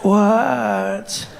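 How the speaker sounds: drawn-out, sleepy annoyance; dog-tired woman. Acted. Tired woman in bed answering partner, groggy. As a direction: answer half asleep, dragging the word. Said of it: "you just wanna fall asleep".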